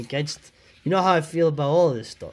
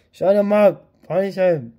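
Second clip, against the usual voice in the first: loud, high comic order; mock villain shout; 6 semitones higher, 7 dB louder than usual. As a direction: yell it like a cartoon tyrant.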